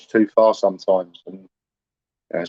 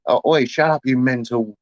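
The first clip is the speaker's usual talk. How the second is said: mild mock shout, pitched up; retold shout; 4 semitones higher than usual. Man quoting his neighbour shouting at his missus, half-hearted retold shout. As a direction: imitate an angry neighbour's yell without the volume. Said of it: "he shouts up to my missus".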